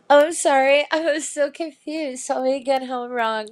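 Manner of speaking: mock-innocent sorry, sugary and fake; a hint of a sweet co-ed playing dumb; college co-ed voice. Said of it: "college co-ed type thing".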